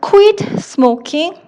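very slow, word by word; slow dictation. Shown as a demonstration. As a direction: spell it out slowly for students to write. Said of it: "자, 그럼 어떻게 해요?".

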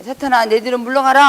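forceful rebuke. Acted. Jesus rebuking Peter, thundering and loud. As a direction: cast him back with full force.

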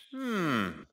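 pondering hum. A narrator's reading. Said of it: "he thought".

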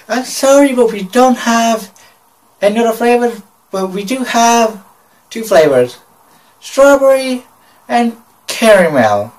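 put-on high-pitched Kabayan employee with a Filipino accent; funny Filipino accent. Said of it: "in this funny accent".

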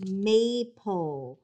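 "maple" said slowly and clearly; "maple" as MAY-pull for spelling; dictated word. Shown as a demonstration. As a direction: stretch both syllables of "maple". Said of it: "I'm gonna say the word a couple of times".

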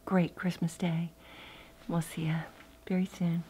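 hushed late-night whisper to the camera. Real, not acted. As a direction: whisper so the sleeping house won't wake. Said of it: "I'm whispering because it's late".

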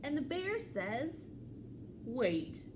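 lively, measured storytime reading; children's story read-aloud. A narrator's reading. Librarian reads a picture book to children, animated storytelling. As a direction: read to little ones, pausing before the reply.

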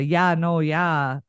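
demonstrated Minnesota catchphrase; light mock Minnesota accent. Shown as a demonstration. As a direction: say it as a Minnesotan would, lightly exaggerated. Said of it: "a big thing in Minnesota".

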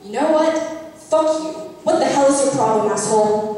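acted outburst of pent-up anger; fed-up, confrontational retort; breaking into anger. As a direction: finally snap and tell them off. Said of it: "When I finally do break and say".

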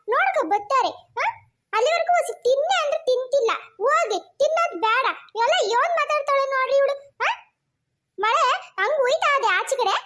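cross, agitated grumbling; exasperated complaint. Acted. Mother complains to granny about daughter, exasperated. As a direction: vent your exasperation at her stubbornness.

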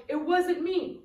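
quick, high "it wasn't me"; playful denial. Pretend. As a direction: toss off an innocent "it wasn't me". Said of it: "and you're gonna go".

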